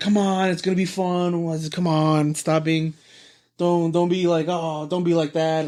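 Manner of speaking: playful, half-teasing, pressuring coaxing tone. Retelling a friend urging him to come along: imitating half-teasing pressure. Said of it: "half teasing, half, like, pressuring him".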